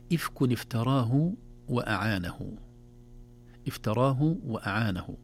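إفك افتراه وأعانه recited slowly; slow recitation. Shown as a demonstration. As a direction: chant the phrase deliberately. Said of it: "كلمة افتراه".

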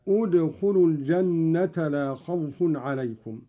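ادخلوا begun on a short u, udkhulu; starting with damma. Shown as a demonstration. Sheikh showing how to begin from ادخلوا, with an initial u. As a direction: open ادخلوا with u, not i. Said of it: "والبدء بالضم عندما نبتدئ كلمة ادخلوا".

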